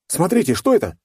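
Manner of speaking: high, loud cry of alarm; shout from the crowd. A narrator's reading. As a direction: call out over the crowd. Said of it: "выкрикнул кто-то из толпы".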